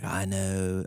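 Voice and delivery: half-hearted attempt at a British accent; badly faked British accent; failed British accent. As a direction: softly try a British accent and give up. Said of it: "I can't do a British accent".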